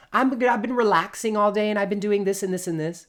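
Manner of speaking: lightly played breezy chatter; chirpy small talk. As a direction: gush it out breezily.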